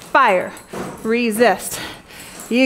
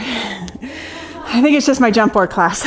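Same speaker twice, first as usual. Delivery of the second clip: laughing; 3 semitones lower, slower than usual. Real, not acted. Laughing at her own jet lag.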